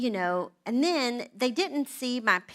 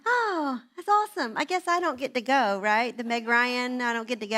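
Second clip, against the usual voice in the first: mock cheerful. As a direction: fake the happy wife. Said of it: "I'm like".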